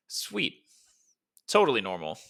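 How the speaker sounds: dry, sarcastic quip. A narrator's reading. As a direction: say it like it's anything but normal. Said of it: "in his usual sarcastic tone".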